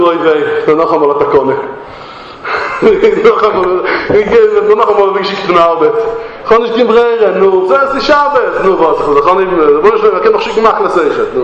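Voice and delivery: groaning, hesitant reluctance with a little laugh; mock lament. A Jew comes home jobless for Shabbos, mock lament. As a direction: complain haltingly, imitating a reluctant worker. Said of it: "וואס איז דער חילוק".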